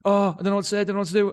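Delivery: rising, nervous rush of panic; recalling the nerves before the big guest, flustered; panicked inner voice. Retold or imitated. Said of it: "I was like".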